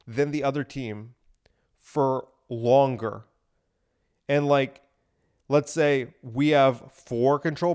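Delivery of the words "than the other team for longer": whisper. Acted. Dramatic aside while explaining game.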